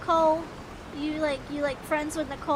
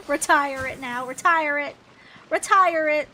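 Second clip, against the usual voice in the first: building demand; 6 dB louder than usual. Real, not acted. Mocking old commercial.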